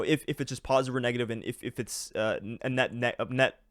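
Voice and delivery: tripping over his words; stumbling, repeating words; stuttering. Real, not acted. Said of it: "oh my God, I can't even speak".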